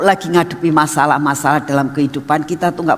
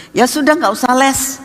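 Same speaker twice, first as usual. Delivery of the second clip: giving-in father; 7 semitones higher than usual. Retold or imitated. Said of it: "papanya runtuh kalau sudah digitukan".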